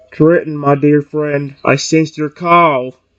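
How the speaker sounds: deep, loud, projected creature voice. Voicing characters in a story: deep Lugia voice. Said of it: "I guess I'll do Lugia's deep voice".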